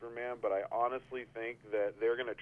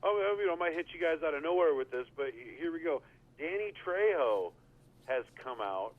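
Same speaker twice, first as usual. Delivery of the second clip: imitating friend; 4 semitones higher than usual. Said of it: "you said".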